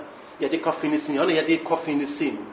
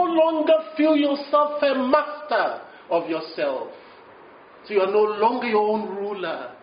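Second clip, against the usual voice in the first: higher, sustained sermon tone; preacher's measured, elevated delivery; earnest preaching; 5 semitones higher than usual. Real, not acted. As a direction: expound it to the congregation in long, raised phrases. Preaches on fruits of righteousness.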